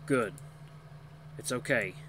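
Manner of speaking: calm, mild reassurance; comforting. A narrator's reading. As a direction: gently reassure someone. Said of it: "His voice is oddly comforting".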